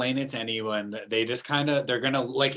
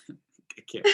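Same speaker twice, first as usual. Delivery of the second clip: breathy exasperated whisper; 8 dB quieter than usual. Real, not acted. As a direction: give up in a whisper. Giving up in mock despair.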